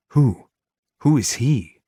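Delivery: urgent demand. A narrator's reading. Demanding who threatens her.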